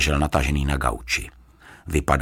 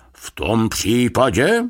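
slow, stretched stalling; higher, drawn-out phrase rising at the end; playing for time; 7 semitones higher, 4 dB louder, slower than usual. A narrator's reading. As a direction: draw the words out to buy time. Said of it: "aby získal čas".

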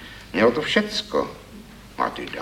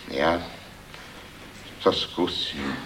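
softer, pensive reply; thoughtful; 2 semitones lower, 6 dB quieter, slower than usual. Acted. Poet pondering the critic's advice, thoughtfully. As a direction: mull it over before answering. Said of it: "pravil hlas zamyšleně".

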